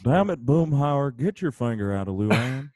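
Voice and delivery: a grumbling Texan neighbour; Hank Hill impression. Hank Hill telling off Boomhauer, lightly voiced. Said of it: "Hank Hill".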